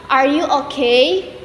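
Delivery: okay lifts at the end as a question; rising intonation. Shown as a demonstration. Student demonstrating a question, rising intonation on okay. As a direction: let the pitch climb on okay. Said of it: "In rising intonation".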